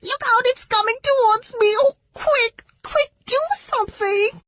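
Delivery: very high, frantic shrieks; panicked Margot. A narrator's reading. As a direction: shriek in terror for help.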